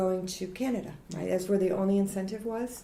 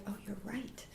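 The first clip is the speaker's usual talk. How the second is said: resigned concession; 17 dB quieter than usual. Retold or imitated. Conceding to husband in retold thought.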